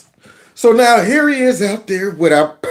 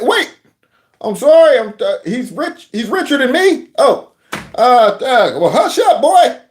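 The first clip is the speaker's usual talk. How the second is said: higher, stammering backtrack; flustered mock politician; 3 semitones higher than usual. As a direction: act caught out and fumble for words.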